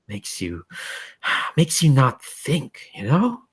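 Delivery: lightly voiced otherworldly being, animated then weary; bored, powerful entity. Entity confiding boredom with power to Michael, animated then weary.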